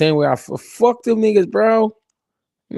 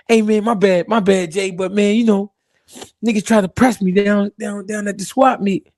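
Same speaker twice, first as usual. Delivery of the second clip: hyped caller apologizing; 5 semitones higher than usual. Retold or imitated.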